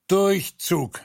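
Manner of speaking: ein lauter, zorniger Ausruf; noch immer wütend. Acted. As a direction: Durchzug wütend und laut hinwerfen. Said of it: "erklärte er noch immer so wütend". (der König ordnet zornig Durchzug an, laut und wütend)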